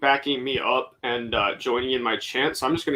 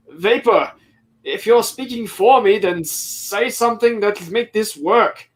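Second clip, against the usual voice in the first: higher, louder in-character demand; calling out; 7 semitones higher, 4 dB louder than usual. Acted. Aegir orders Vapor to speak for him, calling out. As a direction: call up a sharp order to a helper. Goblin calls out to crewmate Vapor.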